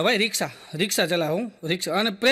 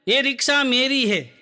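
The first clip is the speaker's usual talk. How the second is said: dramatic slogan reading; 3 semitones higher, slower than usual. Retold or imitated. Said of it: "રિક્ષાની વાંહે લખ્યું હતું".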